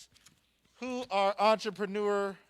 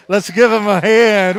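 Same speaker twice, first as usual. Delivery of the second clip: hype shout; 7 dB louder than usual. Real, not acted. Cheering on the award winner.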